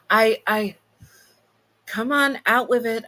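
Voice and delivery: high, loud impatient demon. Acted. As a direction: push them to spit it out. Impatient demon demanding answer.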